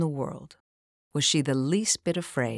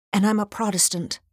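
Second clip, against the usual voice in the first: hurried gasp; 5 semitones higher, 5 dB louder than usual. A narrator's reading. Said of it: "gasped hurriedly".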